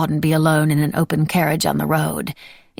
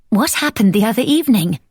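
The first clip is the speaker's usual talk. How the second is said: lightly voiced curious friend; 4 semitones higher, 4 dB louder than usual. A narrator's reading. Miss Mulberry asks eagerly.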